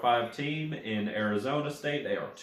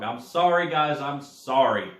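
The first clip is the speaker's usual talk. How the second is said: higher and louder, a quick apologetic outburst; sheepish apology; 3 semitones higher, 5 dB louder than usual. Real, not acted. Host apologizing to viewers after reading his notes wrong, sheepish apology. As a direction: own up to the slip to the viewers.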